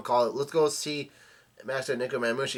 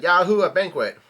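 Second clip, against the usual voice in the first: higher, louder mock cheer; gleeful yell; 5 semitones higher, 7 dB louder than usual. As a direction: whoop it out as a retold celebration. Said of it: "Luffy yells out".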